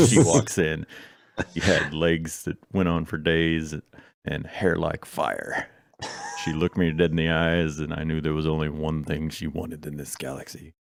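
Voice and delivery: lightly voiced gumshoe monologue; noir detective. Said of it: "noir-style monologues".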